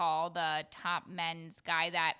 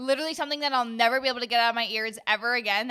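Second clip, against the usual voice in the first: exaggerated outrage; 2 semitones higher, 7 dB louder, much faster than usual. Real, not acted.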